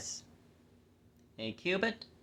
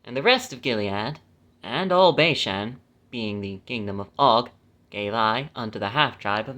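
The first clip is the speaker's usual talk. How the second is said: measured, phrase-by-phrase Bible reading; scripture reading; 3 dB louder than usual. Acted. Reading the law's land grants to listeners, measured scripture reading. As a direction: read the verse out deliberately, stressing key names.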